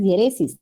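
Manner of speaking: diéresis wrongly stressed, as a mistake to avoid. Shown as a demonstration. Teacher showing the class a wrong reading of diéresis, misstressed. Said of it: "peor todavía".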